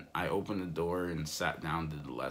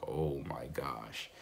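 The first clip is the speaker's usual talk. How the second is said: slow, drawn-out "Oh my gosh", a bit softer and lower; dismayed realization; 5 semitones lower, 4 dB quieter, slower than usual. Retold or imitated. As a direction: sink into it as the mistake dawns. Finding the key in his pocket.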